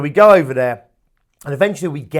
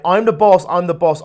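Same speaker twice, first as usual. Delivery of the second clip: insistent inner voice; 3 semitones higher, 6 dB louder than usual. Acted. Unconscious kicks in against you, insistent. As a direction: push back as the one in charge. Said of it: "Then it kicks in saying".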